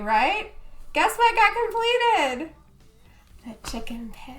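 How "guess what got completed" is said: higher, louder, slow teasing question; excited tease. Real, not acted. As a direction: drag it out to build suspense. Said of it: "teasing build-up".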